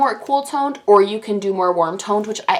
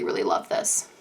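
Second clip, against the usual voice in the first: whispered; 9 dB quieter than usual. Real, not acted. Gushing over palette.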